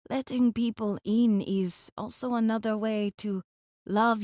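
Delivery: slowing, lightly voiced confidant; the speaker, confiding. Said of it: "His voice drops".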